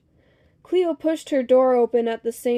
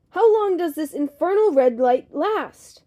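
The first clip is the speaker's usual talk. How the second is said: loud, higher exasperated holler; hollered complaint; 4 semitones higher, 6 dB louder than usual. A narrator's reading. Cleo fed up with the red light, hollering. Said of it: "Cleo hollered".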